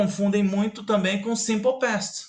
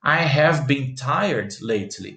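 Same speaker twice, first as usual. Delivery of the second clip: slow, careful example read; slow model sentence; 3 semitones lower, slower than usual. Shown as a demonstration. Teacher to students, slow careful model sentence. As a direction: spell it out slowly for the class. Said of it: "você tem que usar o present perfect".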